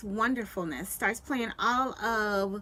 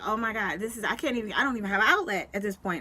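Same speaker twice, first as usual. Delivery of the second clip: mock panic, hurried toward the end; retold freak-out; faster than usual. Woman retelling her internet failing to her audience, mildly freaked out. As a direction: replay a flustered rant, speeding up. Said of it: "I'm just freaking out".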